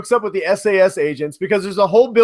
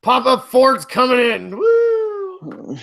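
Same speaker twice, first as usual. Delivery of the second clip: put-on drunk Harrison Ford; 5 semitones higher than usual. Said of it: "Damn Harrison".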